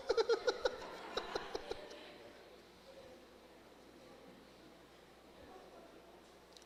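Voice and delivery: breaks into laughter at the punchline; surprised laugh. Real, not acted.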